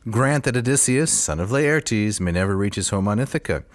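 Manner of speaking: lightly voiced giant's curse; a hint of a brooding giant praying; Cyclops voice. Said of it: "in my Cyclops voice".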